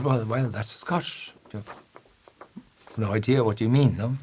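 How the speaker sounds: a hint of a smug barkeeper; lightly voiced barkeeper.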